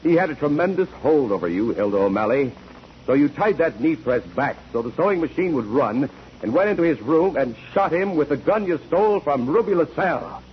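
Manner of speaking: rising, relentless cross-examination; mounting accusation. Acted. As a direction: pitch climbing as the accusation builds. Prosecutor presses accusation, rising.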